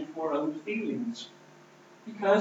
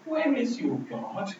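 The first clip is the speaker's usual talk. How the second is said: rising higher, slow taunting question; mocking taunt; 7 semitones higher, slower than usual. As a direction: sneer it upward, lingering on Where. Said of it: "People really said to Christ".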